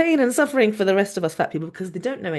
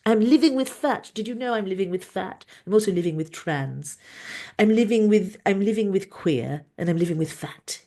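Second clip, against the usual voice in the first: lightly put-on Trump-like accent; a hint of Trump. Host joking about living with fat, loosely Trump-like accent. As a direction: slip half-accidentally into a not-quite Trump accent. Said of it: "I don't know where that accent came from".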